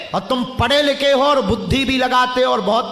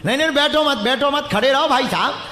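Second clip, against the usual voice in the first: raised-pitch command; urgent correction; 5 semitones higher than usual. Real, not acted. Preacher stopping a man from sitting, urgent correction. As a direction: cut in higher to stop him.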